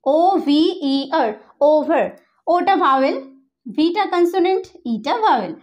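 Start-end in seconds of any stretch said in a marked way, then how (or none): 0.0-1.3 slow spelled-out ওভিইআর; spelled out letter by letter. Shown as a demonstration. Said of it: "next ওভার". 1.7-2.0 ওভার with a long first vowel; say the word ওভার. Shown as a demonstration. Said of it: "next ওভার".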